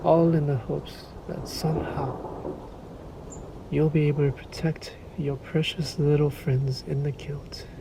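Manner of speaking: hushed, breathy taunt that sneers at the hunter's hopes; mocking whisper. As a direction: whisper it like a secret mockery. Vampire mocks the hunter's hopes.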